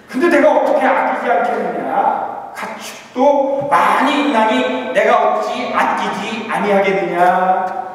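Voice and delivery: lightly voiced God, slow and drawn out; slow, solemn divine question; God's closing question. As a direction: stretch every word like a patient father asking.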